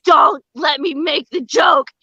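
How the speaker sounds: half-shouted mock prayer, holding back a laugh; pleading to grandma. Comic begging grandma not to make the joke, strained plea. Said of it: "I was like".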